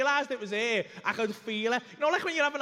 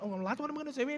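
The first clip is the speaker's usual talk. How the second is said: retold panic; 5 semitones higher, 4 dB quieter, faster than usual. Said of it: "I'm, like, panicking".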